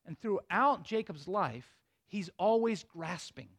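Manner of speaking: slow, quiet first telling, dropping the voice; hushed slow setup; slow and soft. Shown as a demonstration. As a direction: lay it down gently and slowly. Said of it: "So here's the point".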